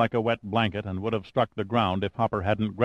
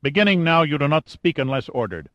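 higher, louder barked command; harsh guard woman; 6 semitones higher, 4 dB louder than usual. Acted. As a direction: lay down the law to the slave. Melika voiced by narrator.

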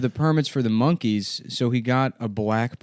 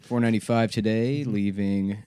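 radio traffic announcer. Acted. Radio traffic report parody.

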